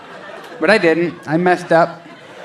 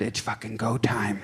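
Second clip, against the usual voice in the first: whispered; 5 semitones lower, 12 dB quieter than usual. Retold or imitated. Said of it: "you whispered".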